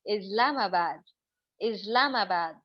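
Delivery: इस्लामाबाद with a z sound and English vowels, slow; English accent. Shown as a demonstration. Teacher shows students an Englishman's accent, izlamabad. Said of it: "वो बोलेगा इस्लामाबाद".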